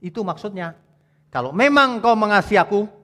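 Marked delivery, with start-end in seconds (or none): 1.3-2.9 voicing Jesus. Jesus voiced again.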